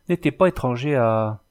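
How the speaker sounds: "n'était pas étranger à" left hanging on "à"; hesitant break-off. A narrator's reading. Carter hesitating to finish his guess, "à" left unfinished. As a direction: stop short after "à", searching for the word. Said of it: "Le charretier hésita".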